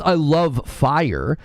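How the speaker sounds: slow, drawn-out mock declaration; mocking quote. Streamer mocking what chat claims people say, drawn out. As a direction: stretch every word to ridicule it. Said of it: "No one stands around and says".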